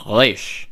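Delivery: Resh with a throaty French R at the back. Shown as a demonstration. Teacher showing modern Israeli Resh. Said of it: "like the French R".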